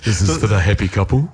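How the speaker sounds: host the wedding crowd over the mic. Pretend. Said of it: "you'd always try to get your D J voice on".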